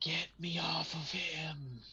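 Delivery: airy, otherworldly, slow ethereal voice. Retelling a voice heard from outside the armor, ethereal voice. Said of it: "almost like a uh, ethereal voice".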